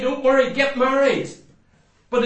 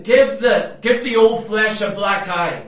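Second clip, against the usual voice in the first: louder, punching out give; forceful command; 4 dB louder than usual. Retold or imitated. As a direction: preach it like a blow. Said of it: "He's saying".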